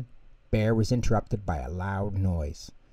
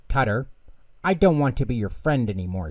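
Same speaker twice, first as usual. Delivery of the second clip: angry; 3 semitones higher, faster than usual. Acted. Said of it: "Ojo was angry".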